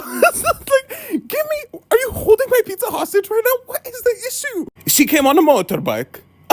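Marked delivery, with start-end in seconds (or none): 0.0-4.6 high voice cracking with suppressed laughter; holding back a laugh. Retold or imitated. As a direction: try not to laugh while demanding. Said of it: "holding back a laugh".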